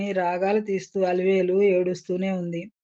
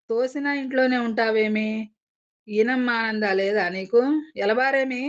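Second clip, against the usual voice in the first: pitched up, raging at the rival; enraged scolding; 3 semitones higher than usual. Acted. Wife drives the rival out, raging. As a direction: fling the words at her like a furious shrew. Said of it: "రెచ్చిపోయి మాట్లాడుతూ తాటకిలా ఎగిరిపడింది".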